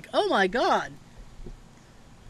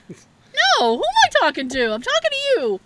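much higher, whiny and put-upon; mock exasperated; 13 semitones higher, 5 dB louder than usual. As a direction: whine it in a squeaky voice. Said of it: "He's like".

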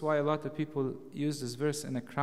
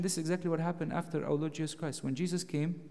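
ordinary delivery

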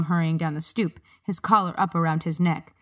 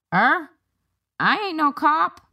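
surprised guard voice; 10 semitones higher, 3 dB louder, slower than usual. A narrator's reading.

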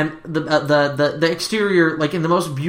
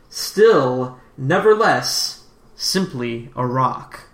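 reading riddle inscription; slower than usual. Acted.

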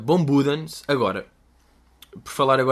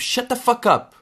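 a high, raised "Shut the fuck up."; mock American curse; 11 semitones higher, 4 dB louder, slower than usual. Shown as a demonstration. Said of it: "tem outras cenas".

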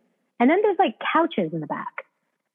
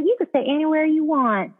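put-on Southern accent; 5 semitones higher than usual. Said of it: "she was Southern".

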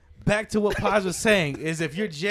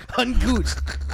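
laughing; 3 semitones higher, slower than usual. Real, not acted. Laughing while repeating word.

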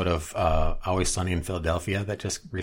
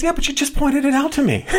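high, louder whiny cartoon voice; imitating Charlie; 7 dB louder than usual. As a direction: protest like a goofy friend, pitched way up. Charlie voiced in retold episode.

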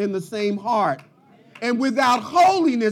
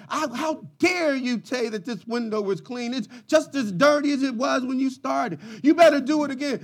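angry; 4 semitones higher than usual. Retold or imitated. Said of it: "just angry and ... out of sorts".

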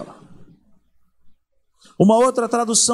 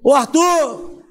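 calling out; 7 semitones higher, 5 dB louder, much slower than usual. Retold or imitated. God calling a person.

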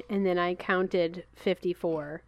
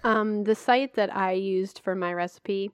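eating while talking. Real, not acted. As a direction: mouth full of chocolate. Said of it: "I'm eating chocolate now".

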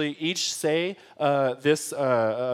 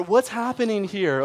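higher, slower, lightly acted worry; mildly scared; 5 semitones higher than usual. Scared disciples asking about the storm, mildly scared. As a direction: act out a touch of alarm. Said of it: "they're scared".

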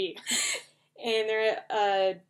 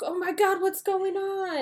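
high-pitched play-acted shock; mock alarm; 11 semitones higher than usual. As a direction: squeal it like a baffled bystander. Acted panic in a shootout.

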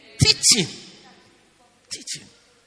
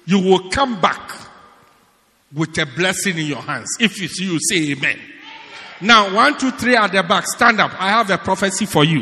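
loud, halting prophet act; mock prophesying; 6 dB louder than usual. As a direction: imitate a preacher calling out prophecies. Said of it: "sit there and say".

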